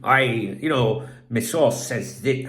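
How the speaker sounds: slow, mock Scottish insider; attempted Scottish accent. Mocking channels that claim sources, shaky Scottish accent. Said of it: "what accent? I'm trying to do a Scottish accent".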